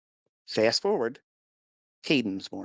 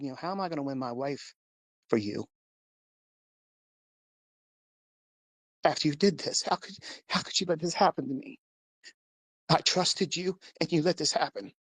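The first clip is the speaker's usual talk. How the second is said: anguished pleading; 5 semitones higher than usual. Retold or imitated. Crying out to God in grief.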